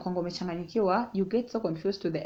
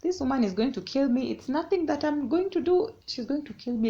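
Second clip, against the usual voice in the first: terrified; 6 semitones higher than usual. Retold or imitated. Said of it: "I was so terrified".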